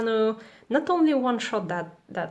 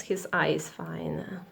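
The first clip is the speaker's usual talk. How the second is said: whispering; 4 semitones lower, 7 dB quieter than usual. Pretend. Whispered joke about the character.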